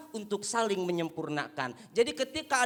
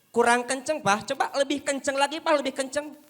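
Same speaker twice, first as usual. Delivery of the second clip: heckling crowd; 5 semitones higher, 5 dB louder than usual. Retold or imitated. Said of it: "audience cheering him on".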